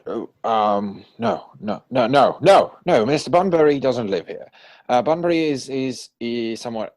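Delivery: flustered stammer. Acted. Algernon flustered, inventing an excuse.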